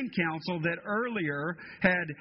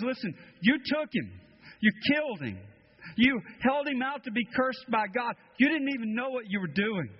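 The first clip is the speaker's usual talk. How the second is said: Peter's accusation; 5 semitones higher than usual. Acted. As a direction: confront them with it.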